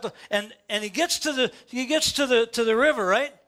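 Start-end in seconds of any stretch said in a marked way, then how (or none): none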